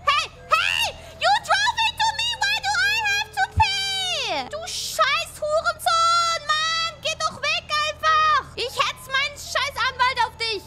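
put-on anger. Streamer yelling at a driver who hit him, hammed-up fury. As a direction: rant to entertain, not really angry. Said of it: "I'm not really that angry".

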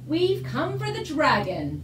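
high, loud and slow royal command; commanding king. A narrator's reading. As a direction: announce it like a stern king. King arrives to claim dragon.

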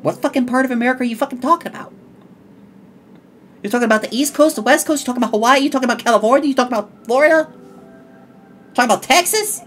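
acted exasperated grilling; indignant American. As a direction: fire off incredulous questions, quick and pushy. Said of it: "if you're from America, you're like".

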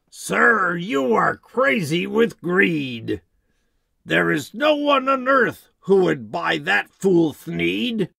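bossy Lorax. Acted. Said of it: "The Lorax said".

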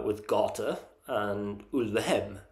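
Swedish accent. Shown as a demonstration. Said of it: "That's in a Swedish accent".

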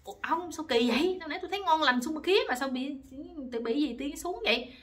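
acted-out wifely exasperation; annoyed wife. Wife demands answers after her husband suddenly loses interest, annoyed. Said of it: "bà tức quá, bà mới nói".

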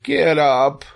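high, contained scream; exasperated high yell. A narrator's reading. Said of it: "screamed Wilbur".

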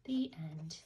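breathy hush to close the book; whispered the end. Acted. Ending the bedtime story for kids, whispered. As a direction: whisper it like the lights are going out.

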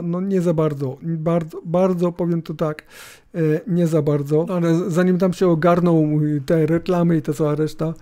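ordinary talk, nothing marked

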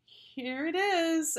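high, slow, drawn-out "here it is"; eager child voice. A narrator's reading. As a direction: push it out brightly to cover the lie. Nervous kid waving copied homework.

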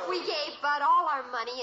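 talking through a laugh. Acted. Daughter admitting they gave Bud their money, laughing while she speaks. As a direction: giggle through the confession.

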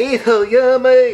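hammed-up Chinese accent; mock Chinese accent. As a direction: silly fake Chinese accent. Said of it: "talk normal".

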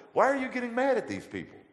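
the Lord scolding him, lifted up high; the Lord rebuking. Retold or imitated. God scolds him for his anger, loud high rebuke. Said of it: "the Lord said to me".

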